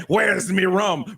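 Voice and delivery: hammed-up one-armed pirate. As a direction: stretch it out as a menacing pirate. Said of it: "the one-armed pirate walks towards Ray".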